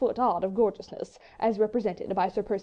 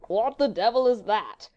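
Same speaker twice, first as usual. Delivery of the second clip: slow, louder upper-class drawl; bland foppish puzzlement; 5 dB louder than usual. A narrator's reading. Sir Percy not grasping a challenge, bland drawl. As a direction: drawl the question without any urgency. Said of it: "asked Sir Percy blandly".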